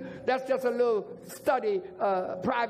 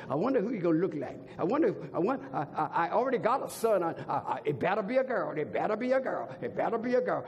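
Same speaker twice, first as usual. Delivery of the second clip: lower, stammering imitation of a worried dad; anxious expectant father; 5 semitones lower, faster than usual. Father at the nursery window, imitated low and stammering. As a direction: stumble and repeat like a nervous father-to-be. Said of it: "The father said".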